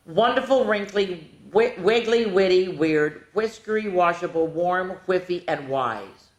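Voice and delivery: one long breathless run of words; rushed read-aloud list; all in one breath. Shown as a demonstration. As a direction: rattle the list off without a breath. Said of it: "I'm gonna do it all in one breath".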